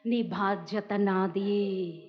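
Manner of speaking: very slow and soft, lingering on నీ; soft, slow promise. Acted. Preacher voicing God to the elderly, softly slow. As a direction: whisper the comfort.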